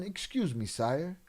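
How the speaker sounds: overly polite, prim mock gentleman; mock posh polite. Mocking a too-polite man in a bathroom, prim and proper. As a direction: ham up a fussy proper gentleman. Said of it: "Don't that sound way better than".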